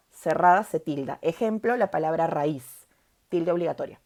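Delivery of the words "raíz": raíz with the í stronger than the a; stress on the I. Shown as a demonstration. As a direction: say raíz as two syllables, leaning on íz. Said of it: "Cerrada suena más que abierta".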